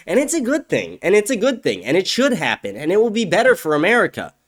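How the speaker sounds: sneering high-pitched mimicry of naive agreement; mocking quote. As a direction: parrot them in a high, mocking singsong. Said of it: "white people in that video who are like".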